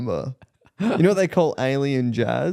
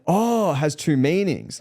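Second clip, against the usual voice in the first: slow, higher-pitched dawning realisation; older German gentleman; 5 semitones higher, slower than usual. Retold or imitated. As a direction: lightly voice an older German man catching on. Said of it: "This bloke was a German older gentleman".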